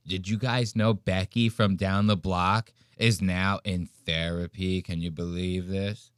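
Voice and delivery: dish it like a tipsy aunt; drunk wine aunt. Retold or imitated. A hint of a drunk wine aunt spreading neighborhood gossip. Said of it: "You sound like an aunt".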